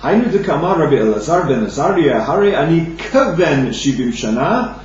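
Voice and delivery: ordinary talk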